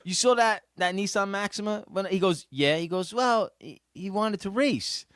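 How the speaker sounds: mock innocent young driver; real innocent. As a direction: play it totally innocent, like nothing happened. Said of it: "real innocent".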